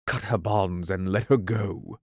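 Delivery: a hint of a stern captain; steady captain's order; Hook's command. Peter ordering Smee in Hook's voice.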